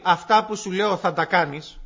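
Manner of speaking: a firm order handed down; stern command. Shown as a demonstration. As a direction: say it as a parent's flat demand. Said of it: "Δεν λέει". (αυστηρή εντολή)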